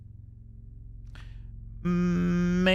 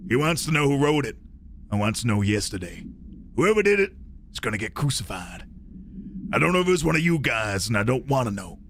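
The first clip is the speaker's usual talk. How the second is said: mock American accent; 9 semitones lower than usual. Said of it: "let me do my best American accent".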